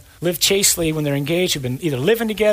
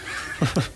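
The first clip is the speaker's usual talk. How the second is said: soft laugh; 6 dB quieter than usual. Real, not acted. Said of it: "I was gonna say to shut up".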